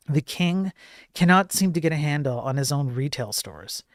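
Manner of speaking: half-hearted mock English accent, lightly put on; a clumsy go at a posh English accent; a lightly voiced, badly done English accent; terrible English accent. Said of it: "That was a terrible English accent".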